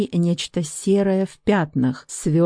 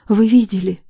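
tearful, sniffling, higher and louder; sobbing question; 4 semitones higher, 6 dB louder than usual. A narrator's reading. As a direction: ask through sobs. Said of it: "Всхлипывая и надрывно сморкаясь".

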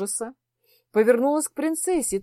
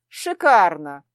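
a low, louder sarcastic "great"; sarcastic exclamation; 4 semitones lower, 4 dB louder, slower than usual. Acted. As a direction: fling it out dismissively. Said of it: "воскликнул Теодор".

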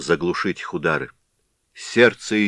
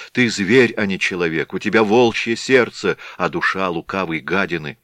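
desperate pleading. Acted. Katerina begs husband's father.

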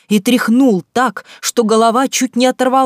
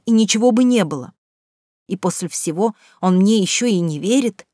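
ordinary delivery

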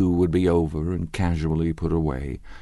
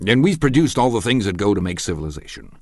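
blustering Tom; 2 semitones higher, 4 dB louder than usual. Acted. Tom lecturing the dinner guests, loud and pompous. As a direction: hammer his half-read theory home.

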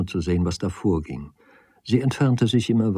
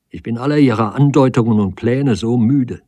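louder, fed-up outburst; exasperated; 2 semitones higher, 5 dB louder than usual. Acted. Woman tired of his hints and schemes, exasperated. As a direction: let the exasperation break out.

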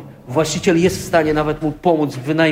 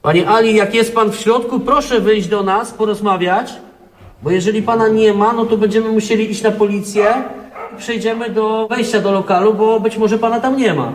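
raised voice, calling out to the tenant; calling through a door; 3 semitones higher than usual. Real, not acted.

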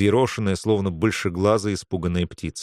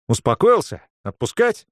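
mocking question; 10 semitones higher, 4 dB louder than usual. A narrator's reading. Viktor holding the boy.

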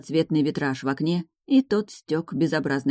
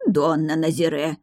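plain reading voice

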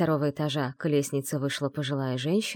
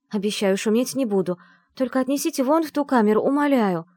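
faster, higher urgent begging; pleading; 7 semitones higher, 4 dB louder than usual. A narrator's reading. Heroine begs the servant for that cell, urgent pleading. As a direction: beg him, hurried and desperate. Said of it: "взмолилась я".

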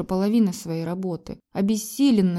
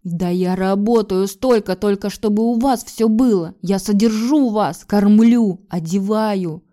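loud, rising indignation; angry; 7 dB louder, slower than usual. Acted. Husband shouting that he provides for the family, angry. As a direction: defend yourself hotly. Husband angrily defends himself.

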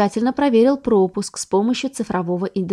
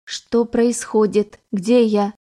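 slow, confused robot voice; lost machine waking up; metallic robot voice; much slower than usual. Acted. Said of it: "металлическим голосом произнёс андроид".

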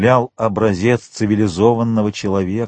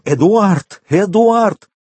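high-pitched cry for a missing son; desperate wail; 9 semitones higher, 4 dB louder, much slower than usual. A narrator's reading. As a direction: call out the name in rising alarm. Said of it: "с воплем".

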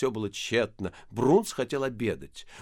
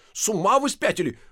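exasperated; 9 semitones higher, 5 dB louder than usual. A narrator's reading. Engineer exasperated.

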